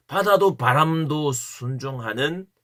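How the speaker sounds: slow, weighty 바다도 바람도 순종하는; slow emphasis. Shown as a demonstration. (바다도 바람도 순종하는 천천히 힘주어)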